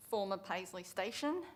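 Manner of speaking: careful spelling-out for a typist; slow dictation. Real, not acted. Councillor spelling a station name for whoever's typing, slow dictation. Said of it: "I'll read this out slowly".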